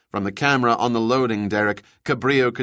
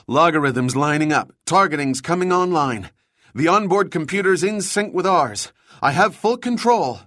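higher-pitched, building excitement; excited triumph; 6 semitones higher, 3 dB louder than usual. A narrator's reading. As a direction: report success with mounting glee, rising to a peak. Mark exulting as system works.

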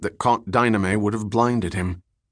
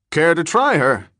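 higher, louder casual question; casual offer; 7 semitones higher, 5 dB louder than usual. A narrator's reading. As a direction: toss out an offhand invitation. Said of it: "Falconer asked casually".

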